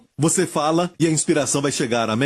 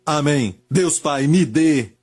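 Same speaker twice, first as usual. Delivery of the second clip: oração guiada. Real, not acted. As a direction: lead them phrase by phrase, pausing for repetition. Leads a repeat-after-me prayer. (oração pausada e enfática, frase por frase)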